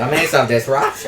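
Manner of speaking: Cockney try. Shown as a demonstration. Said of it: "that's how I always get my accent".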